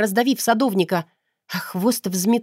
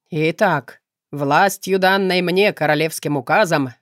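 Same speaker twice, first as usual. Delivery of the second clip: solemn ceremony. A narrator's reading. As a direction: pronounce it like a wedding official. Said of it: "торжественно произнёс Артей". (торжественно, как на церемонии)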